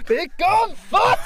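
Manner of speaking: high, loud imitated command; giving it beans. Friend echoing an admired audition line, full-effort shout. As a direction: belt it out theatrically, pitched right up. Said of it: "He put effort into it".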